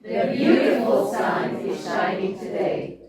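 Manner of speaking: slow, loud choral line leaning on "beautiful"; loud group chant punching "beautiful"; stress on beautiful. Shown as a demonstration. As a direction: hit the word "beautiful" together.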